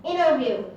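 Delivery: Interview as "innerview", T silent; American dropped T. Shown as a demonstration. Student demonstrating American pronunciation, T dropped from Interview. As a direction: swallow the T after the N in Interview. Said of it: "very common in America that to pronounce".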